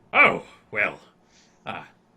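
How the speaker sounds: startled, very loud, swooping, caught-off-guard outburst. Voicing a duke surprised by someone popping up: startled duke character. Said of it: "he kinda, like, startles for a second".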